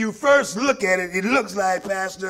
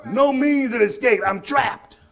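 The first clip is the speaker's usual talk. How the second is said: fiery preaching; 3 semitones higher than usual. Acted. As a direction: preach it, rising and pounding. Preaching at full force.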